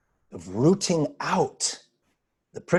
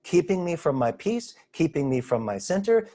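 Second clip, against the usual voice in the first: higher-pitched, dawning alarm at a discovery; acted astonishment, pitch climbing into indignant questions; dismayed realization; 6 semitones higher than usual. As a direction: voice someone suddenly spotting their own fears. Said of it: "and you realize".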